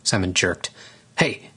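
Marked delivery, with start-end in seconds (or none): 1.2-1.5 startled shout. Acted. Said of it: "he shouted".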